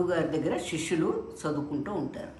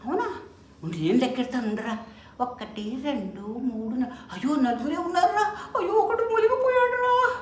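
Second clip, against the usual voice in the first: second disciple recounting; 7 semitones higher than usual. Acted. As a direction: recount carefully, then cry out that one drowned.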